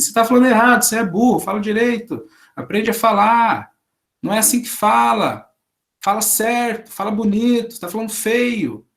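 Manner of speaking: mock a tyrant correcting speech; scolding language dictator. Teacher mocks the strict grammar teacher, a scolding tyrant. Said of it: "o cara que fala assim".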